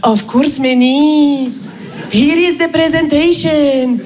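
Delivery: slow, cheerful Indian English; cheerfully oblige in an Indian accent. Retold or imitated. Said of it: "Raj me répond". (Raj répond avec un accent indien, ravi)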